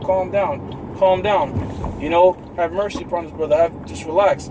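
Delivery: a retold, lightly voiced soothing plea; elder brother calming the narrator, mild soothing; calming someone down. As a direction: gently settle an angry brother, mildly imitated. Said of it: "he was telling me to calm down".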